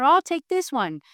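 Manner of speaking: little animals. Acted. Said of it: "All the little animals who say".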